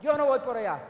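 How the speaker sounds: annoyed husband turning his wife down; angry refusal. Retold or imitated. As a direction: push her request away crossly. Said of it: "Yo estaba bravo".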